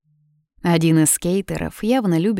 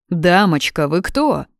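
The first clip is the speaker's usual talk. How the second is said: louder, startled call; startled exclamation; 4 dB louder, slower than usual. Acted. Brother dodging a slap, startled exclamation. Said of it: "воскликнул Мирон".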